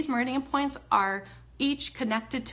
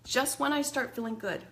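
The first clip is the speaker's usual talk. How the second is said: demo anxious venting. Shown as a demonstration. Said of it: "so I'm showing you the points".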